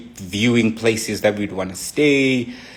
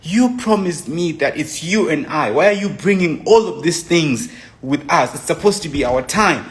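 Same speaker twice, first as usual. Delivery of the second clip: higher-pitched, mildly acted reproach; retold argument; 6 semitones higher than usual. Girlfriend reproaching her partner in an argument, mildly indignant. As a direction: lightly imitate an upset partner, pitch raised. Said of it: "we have an argument".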